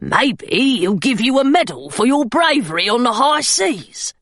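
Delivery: a teasing gargoyle creature voice; wry little gargoyle, dry and teasing. Acted. Gargoyle teasing Hilary about a medal, dry creature voice. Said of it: "said the gargoyle".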